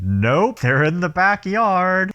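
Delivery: casual Rick. Retold or imitated. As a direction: breezily tell the cops where the kids are. Rick casually answering the cops.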